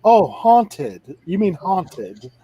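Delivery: haunted said slow with flat broad a; the lady correcting a twangy haunted, slow; correcting pronunciation. Retold or imitated. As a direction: slowly correct his haunted. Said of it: "She's like".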